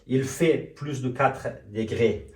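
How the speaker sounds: very slow, stretched French words; very slow model sentence. Shown as a demonstration. Teacher reviewing the sentence very slowly for students. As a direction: drag it out word by word.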